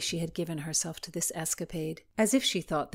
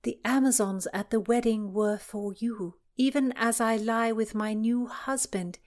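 reading a love letter; 6 semitones higher, 4 dB louder than usual. Acted. Philomena reads another letter.

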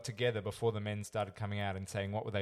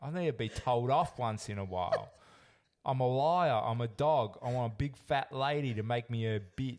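louder, lightly hammed contestant voice; imitating Nathan; 2 semitones higher, 5 dB louder than usual. Mocking Nathan's intro clip, lightly hammed. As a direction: ham up a brash confession. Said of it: "I've made that bit up".

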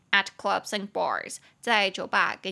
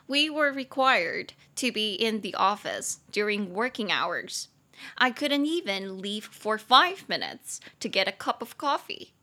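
model sentence read; slower than usual. Shown as a demonstration. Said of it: "我就照了这个句子".

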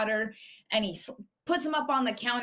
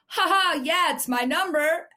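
imitating a loud, higher-pitched holler; retold loud yell; 5 semitones higher, 5 dB louder than usual. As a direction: yell it out like the guy in the store. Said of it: "he yells hella loud".

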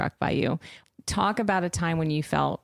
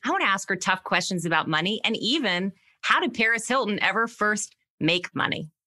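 polished, emphatic host introduction; podcast intro read; 3 semitones higher than usual. Acted. Host introducing Paris Hilton to listeners, scripted intro read. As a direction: read the intro with deliberate punch on key phrases.

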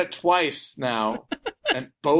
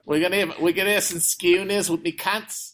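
jokey put-on Aussie accent; Australian accent; 2 semitones higher than usual. American guest planning schooners with mates, Australian accent. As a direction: play an Australian pub regular. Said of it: "I'll go to do the Australian accent".

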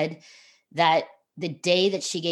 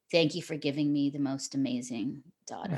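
softer, hushed retelling of a father's thanks; tender gratitude; 3 semitones lower, 6 dB quieter than usual. Retold or imitated. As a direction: say it gently, moved. Dad thanks birth mother, emotional.

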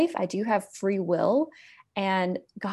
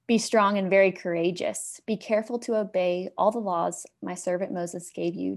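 scripture reading. Acted. Host reading Joshua to listeners, solemn and measured. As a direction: read it out like a solemn verse.

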